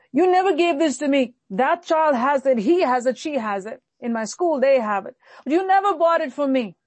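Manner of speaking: hammed-up brat blaming parents; accusatory child. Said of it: "That's an accusatory spirit".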